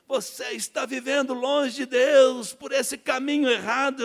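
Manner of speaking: slow, loud preaching, drawn out; preacher's sermon. Retold or imitated. Preacher calling out the sinner, slow loud preaching. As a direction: preach it slowly to the crowd. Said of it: "ele começou a falação dele".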